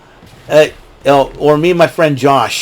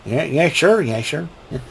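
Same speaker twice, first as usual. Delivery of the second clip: Nutsy voice; 8 dB quieter than usual. Retold or imitated. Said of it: "And you got Nutsy".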